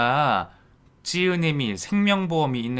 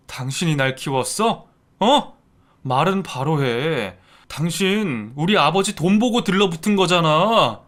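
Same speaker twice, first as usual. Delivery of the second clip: loud, cutting accusation; bitter accusation; 3 semitones higher, 3 dB louder than usual. Acted. Son-in-law bitterly accusing his stepmother. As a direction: throw the truth in her face.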